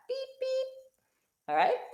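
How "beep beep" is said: two high squeaky beeps; car horn beeps. Shown as a demonstration. Teacher making her drawn car honk, high squeaky beeps. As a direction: squeak out beep beep like a tiny horn. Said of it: "make the little sound come out of the front like that".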